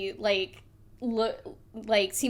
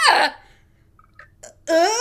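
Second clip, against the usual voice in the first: hurt yelp; 6 semitones higher, 9 dB louder than usual. Acted. Voicing fish man getting hit.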